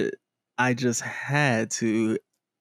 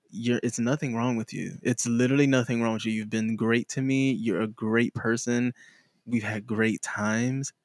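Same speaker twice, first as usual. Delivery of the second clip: gentle breakup; 3 semitones lower, 4 dB quieter than usual. Retold or imitated. Breaking up with someone, soft reassuring tone. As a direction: let them down gently and kindly.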